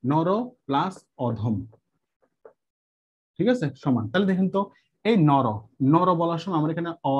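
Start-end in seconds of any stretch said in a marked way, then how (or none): 0.0-1.6 slow. Shown as a demonstration. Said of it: "আমি দুইটা দুইটা করে উদাহরণ দেবো".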